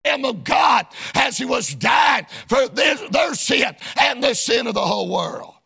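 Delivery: driving pulpit cadence; preaching. Real, not acted. Preacher telling how they mocked the Lord, preaching hard. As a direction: pound out the accusations phrase by phrase.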